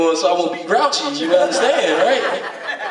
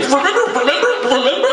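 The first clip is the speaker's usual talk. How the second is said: higher, eager remember; hammed-up buddy reminding; teasing reminder; 5 semitones higher, faster than usual. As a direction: nudge him knowingly. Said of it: "He's like".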